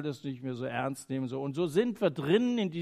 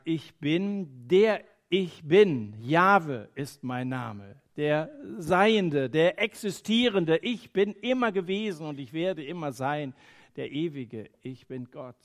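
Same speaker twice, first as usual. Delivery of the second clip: voice of God. Acted. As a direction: speak as God revealing his name, unhurried. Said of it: "stellt sich Gott ihm vor und sagt".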